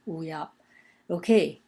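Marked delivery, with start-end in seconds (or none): 0.1-0.5 "wu ya" joined, both syllables in level first tone. Shown as a demonstration. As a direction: say "wu ya" as two level Mandarin first tones. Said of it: "both in the first tone".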